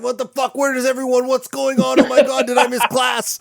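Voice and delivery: high, bewildered voice waking to an empty room; panicked student. Retold or imitated. Student wakes alone in empty class, panicking in a high voice. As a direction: sound lost and alarmed, just woken. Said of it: "He's like".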